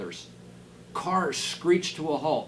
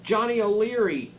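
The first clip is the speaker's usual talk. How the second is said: loud, high booming call of a name; calling loudly; 8 semitones higher, 6 dB louder than usual. Acted. Giant teacher calls down to Johnny, loud booming call. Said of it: "voice echoed loudly".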